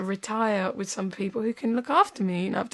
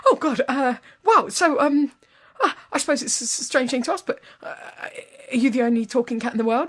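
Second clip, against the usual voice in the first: higher, halting, awestruck questioning; stunned and hesitant; 4 semitones higher than usual. Acted. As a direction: fumble awkwardly towards the question. Stunned man questions talking cat.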